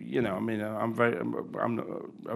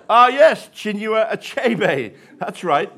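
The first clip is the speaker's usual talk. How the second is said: musing shopkeeper; 12 semitones higher, 13 dB louder, much slower than usual. Retold or imitated. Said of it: "mused the shop owner".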